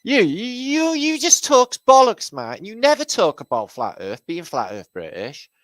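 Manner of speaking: high, loud mock-outraged whine; shrill-pitched mimicry of a heckler, easing off at the end; mocking a complainer. Streamer quoting a viewer who complained, mocking. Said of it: "Somebody had the nerve to say".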